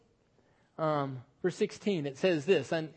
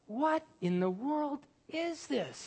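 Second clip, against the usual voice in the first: mock dismay; 7 semitones higher, 4 dB quieter, slower than usual.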